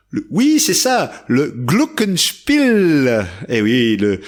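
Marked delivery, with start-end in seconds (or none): 1.3-3.2 Glockenspiel said slowly with a long first syllable; stretched Glockenspiel. Shown as a demonstration. Host teaching kids the instrument's name, drawn-out first syllable. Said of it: "on étire bien la première syllabe".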